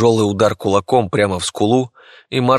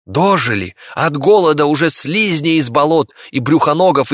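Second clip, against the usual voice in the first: angry villager; 6 semitones higher than usual. Acted. Villager voiced in audiobook.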